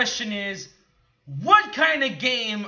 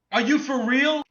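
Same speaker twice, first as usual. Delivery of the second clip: incredulous; 3 semitones higher, 4 dB louder than usual. Acted. Repeats incredulous question, louder.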